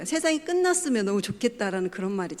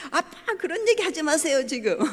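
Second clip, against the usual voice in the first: higher, a touch of irritated protest; imitating angry daughter; 6 semitones higher than usual. Daughter rejects father's comfort, mock angry. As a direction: snap back at dad, mildly played. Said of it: "화를 내는 거예요".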